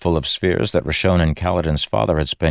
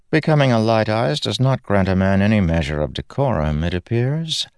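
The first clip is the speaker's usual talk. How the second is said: disdainful Laurel; 5 semitones higher than usual. Acted. Laurel rebuking Kaladin.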